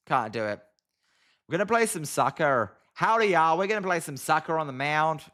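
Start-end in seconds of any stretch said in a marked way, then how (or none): 1.5-5.2 put-on American with a Southern "howdy, y'all"; bad American accent. Shown as a demonstration. Streamer trying again for chat, badly faked American accent. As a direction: have a clumsy go at sounding American. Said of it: "I can't do it".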